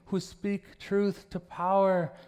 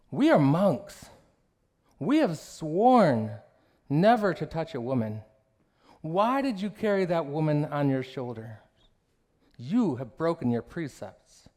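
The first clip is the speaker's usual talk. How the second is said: indignant junior monk; 3 dB louder than usual. Acted. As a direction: lay down the vows like a scandalized novice. Junior monk scolds senior monk.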